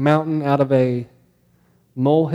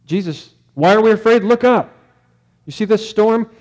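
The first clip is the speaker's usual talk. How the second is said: panicked disciples; 5 semitones higher than usual. Pretend. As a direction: cry out to Jesus in alarm over the storm. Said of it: "What the disciples would say".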